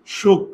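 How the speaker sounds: "সুখ" as a separate shuk, closed hard on the k; doubled consonant demo. Shown as a demonstration. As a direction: cut "সুখ" off on its k as a first syllable. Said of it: "তাহলে দেখো দুইবার যদি দিই".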